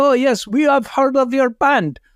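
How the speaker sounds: bad fake Norwegian accent, very high. Quoting the Norwegian men he introduced himself to, in a bad Norwegian accent. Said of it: "because they're from Norway".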